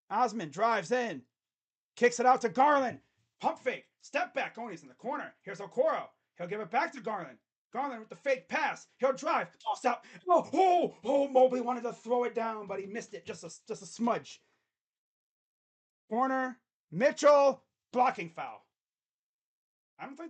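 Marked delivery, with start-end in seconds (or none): 0.1-10.0 raised voice, punching the key plays; live basketball play-by-play. Real, not acted. Commentator calling Mitchell and Mobley's plays, play-by-play. 10.3-10.9 high, loud "oh, oh"; excited outburst. Real, not acted. Commentator reacting to Mobley's missed dunk, excited outburst. 11.0-18.6 raised voice, punching the key plays; live basketball play-by-play. Real, not acted. Commentator calling Mitchell and Mobley's plays, play-by-play.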